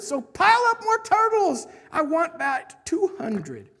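loud, high royal command; booming kingly proclamation; thundered. Acted. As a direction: thunder the order out, then draw out the number. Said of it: "his royal voice thundered".

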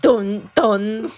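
loud mock suspense sting; aggressive dun-dun. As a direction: voice a forceful two-beat danger cue. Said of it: "Why that sound so aggressive?".

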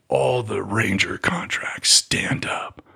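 mock-whispered order to the room; whispered call-out. Retelling the screening officer calling Ranger contracts, whispered. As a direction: hush it like a secret roll call.

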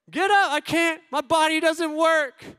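high, loud mock whine; whining protest. Dad acts out son claiming his body won't work, high whine. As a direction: draw it out as a high, helpless complaint.

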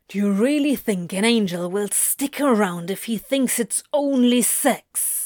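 understated acted snarl; tense, put-on demon voice; snarling hiss. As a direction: throw the question back with mild venom. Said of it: "he hisses, lips curling in a snarl".

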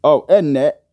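lightly mocked British accent. Podcaster imitating a rival show's host, British accent. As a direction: toss it off as a mock British tag question. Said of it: "That's my British accent".

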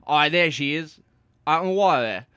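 loud, high excited calling out. Pretend. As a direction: call out in delight. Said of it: "That's what she says".

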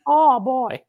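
high mock-worried "oh boy" of a fretting mother-in-law; Italian mother-in-law voice. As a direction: pitch it way up one last time. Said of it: "I just had to hear the voice".

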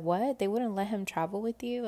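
mildly incredulous question; retold disbelief. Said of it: "He couldn't believe it either".

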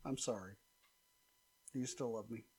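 soft, low mock-pleading apology. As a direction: plead softly, playing it up.

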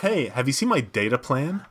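put-on American accent; mock American accent. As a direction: imitate an American lightly. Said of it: "you like my American accent".

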